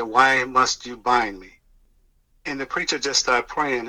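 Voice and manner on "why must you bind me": slow, deliberate imitation of a possessing spirit; lightly voiced demon, weighing each word slowly; demon voice, retold. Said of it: "The voice came out of him and said".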